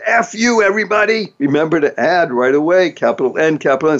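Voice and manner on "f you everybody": playful mock insult. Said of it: "you point the finger and says".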